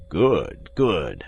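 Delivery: composed voice, falling on each word; calm call. A narrator's reading. Athos answers from behind the cellar door, calm call. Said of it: "cried the calm voice of Athos".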